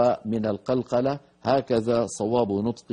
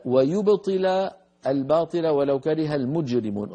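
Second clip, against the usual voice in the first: تلاوة مجوّدة; 3 semitones higher than usual. Shown as a demonstration. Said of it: "آه".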